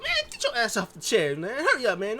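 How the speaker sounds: high and loud, barking him off the chair; imitating a rowdy shout; impatient yell. Jay shoving him off chair.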